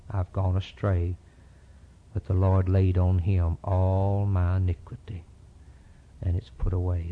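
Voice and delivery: prayer. Acted. Preacher leading the congregation in prayer, reverent. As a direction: pray it humbly and steadily.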